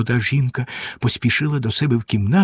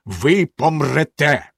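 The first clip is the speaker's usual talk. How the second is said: unmoved, slow; much slower than usual. Acted. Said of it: "незворушно сказав".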